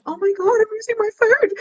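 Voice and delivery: high, crying wail; near tears. Retold or imitated. Using her last food for friends, crying in a high voice. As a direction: cry out as the last food goes. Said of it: "I was like".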